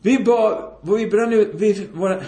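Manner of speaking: retold shout from another room; calling from inside. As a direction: call out urgently as the wife indoors. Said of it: "då ropade hon inifrån".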